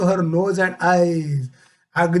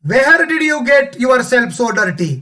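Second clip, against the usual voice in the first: higher, slow acted scolding; mildly angry mother; 4 semitones higher, 4 dB louder, much slower than usual. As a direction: scold the child slowly, with mock anger. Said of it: "राग येणार ना". (रागावलेल्या आईचा हलका अभिनय)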